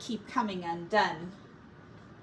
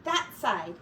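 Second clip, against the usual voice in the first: urgent whisper; 7 semitones higher, 4 dB louder than usual. Acted. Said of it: "hissed Sorrel".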